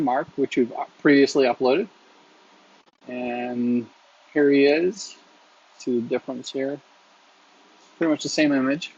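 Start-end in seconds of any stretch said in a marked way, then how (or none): 3.1-8.9 distracted, wrestling a cat on his lap; holding down a pet. Real, not acted. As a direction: talk while holding a squirming cat. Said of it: "I have Iris that jumped into my lap".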